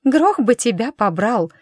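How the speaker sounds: sharp exasperated oath; cursing. A narrator's reading. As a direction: spit out the curse in frustration. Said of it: "выругалась Милаша".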